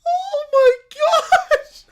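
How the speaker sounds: slow, loud, laughing oh my gosh; shocked laughing wail; laughing disbelief. Real, not acted. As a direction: draw it out half laughing, half wailing. Reacting to crayon photo.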